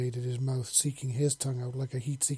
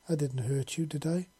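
soft in his ear. Acted. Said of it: "she asked softly in his ear".

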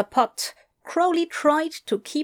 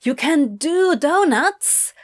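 in awe; 7 semitones higher, 4 dB louder than usual. Acted. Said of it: "Adam asked in awe".

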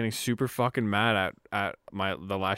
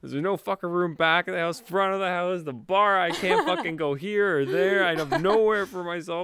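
angry rant; 6 semitones higher than usual. Retold or imitated. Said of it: "so fucking mad".

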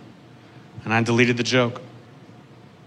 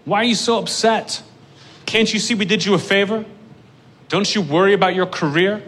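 higher, mocking network exec voice; 6 semitones higher than usual. Comic mimicking the network bosses' lecture, lightly higher. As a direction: whine it like a patronising suit. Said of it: "And I'm like".

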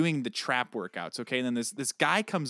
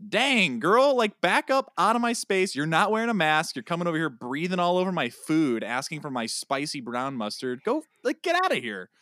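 retold angry rant, much higher and louder; mad; 5 semitones higher, 5 dB louder than usual. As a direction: tell her off for crowding you. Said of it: "I was, I was mad".

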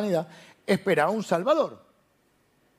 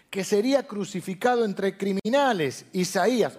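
higher-pitched, measured declamation of each prophecy; proclaimed list reading; 3 semitones higher than usual. Acted. Preacher reading the congregation prophecies about Jesus, proclaimed list reading. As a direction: lift each prophecy, then set down its reference.

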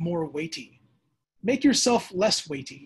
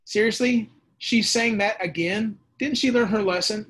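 exasperated God; 4 semitones higher, 4 dB louder than usual. Retold or imitated. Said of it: "He's complaining again".

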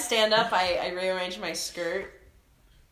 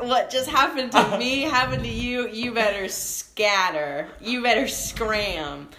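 louder proclamation to the army; loud booming voice; 4 semitones higher, 5 dB louder than usual. Acted. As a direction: boom it out at the troops. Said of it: "in a loud, booming voice".

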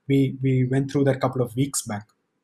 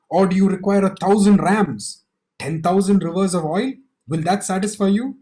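higher, louder sneering offer; arrogant demand; 5 semitones higher, 3 dB louder than usual. Acted. Preacher voicing the people's bargaining, arrogant and higher. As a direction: throw the thousand rams at God with contempt. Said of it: "they're really arrogant".

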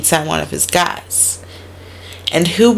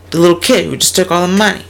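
rushed; much faster than usual. Retold or imitated. Quick back-and-forth dialogue.

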